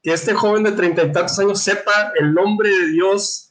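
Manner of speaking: scandalized. Acted. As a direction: raise the pitch in scandalized disbelief. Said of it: "este se escandaliza porque dice". (sumo sacerdote escandalizado, con voz más aguda)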